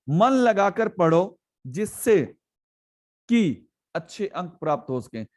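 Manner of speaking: slow dictation read. Shown as a demonstration. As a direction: read the example slowly for the class. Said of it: "अब की भी आ गया".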